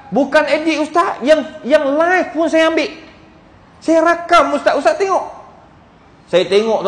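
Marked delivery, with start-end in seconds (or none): 0.1-5.4 higher-pitched, retold earnest protest; earnest insistence. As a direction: insist that the photo is genuine, pitched up. Widower insisting photo is real. (bersungguh-sungguh menegaskan, nada tinggi)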